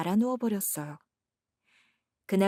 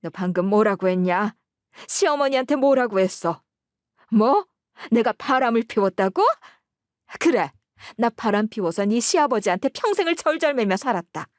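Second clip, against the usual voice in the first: a touch of a sharp mother-in-law, raised and accusing; angry mother-in-law; 2 semitones higher, 5 dB louder than usual. Acted. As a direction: voice the indignant old mother-in-law. Mother-in-law confronts the narrator. (화난 시어머니 말투)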